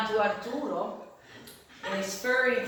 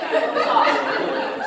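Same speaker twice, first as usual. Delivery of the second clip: laughing; 7 semitones higher, 9 dB louder than usual. Real, not acted. Laughing boast repeated.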